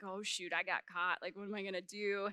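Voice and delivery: low, hushed nervous self-talk; holding back tears. Retold or imitated. Child caught lying to mom, subdued and nervous. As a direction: retell a caught kid's worry, softly. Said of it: "holding back tears".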